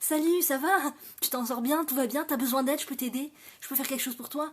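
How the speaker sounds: honeyed, overly sweet neighbourly tone; sugary sweet voice. Acted. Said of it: "je retrouve ma voix, euh, mielleuse".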